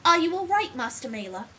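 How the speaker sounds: put-on lightly posh young assistant voice; posh accent. Game player voicing assistant asking after his master, posh accent. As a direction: give it a relatively posh lilt. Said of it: "give him a relatively posh voice".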